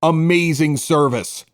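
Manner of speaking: upbeat sponsor read, punching the selling points; bright live-read ad for the sports bar. Acted. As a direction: sell it like a radio spot. Host reads sponsor ad.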